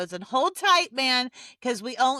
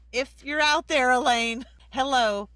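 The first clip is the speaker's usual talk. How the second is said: louder, raised call to someone absent; 3 semitones higher, 6 dB louder than usual. Real, not acted. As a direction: call out to see if she's there. Calling out to absent finalist.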